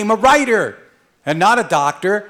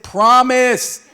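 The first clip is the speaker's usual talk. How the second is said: insistent demand; 5 semitones higher, 6 dB louder than usual. Retold or imitated. Goddaughters insisting.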